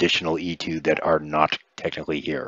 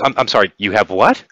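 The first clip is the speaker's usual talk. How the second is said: mild acted disbelief, rising at the end; taken aback; 3 semitones higher, 4 dB louder than usual. Game master voicing her reply to players, mildly incredulous. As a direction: stammer into an incredulous question. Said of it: "she looks at you like, "What?".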